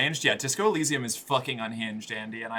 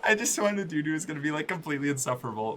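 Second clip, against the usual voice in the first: fast, lightly imitating a friend; straight friend voice; faster than usual. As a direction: rattle it off like a friend. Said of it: "My straight friends telling me their type".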